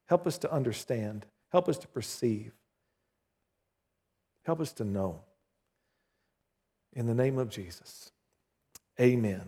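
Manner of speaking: earnest pastoral prayer, softening toward the end. Acted. Pastor prays before sermon.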